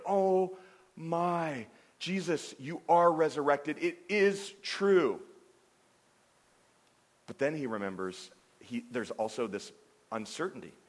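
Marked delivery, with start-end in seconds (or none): 0.1-5.2 high, loud joyful exclamation; overjoyed Peter. Retold or imitated. Peter seeing risen Jesus, high and loud with joy. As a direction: burst out with overjoyed relief. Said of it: "He's so overjoyed because he's like".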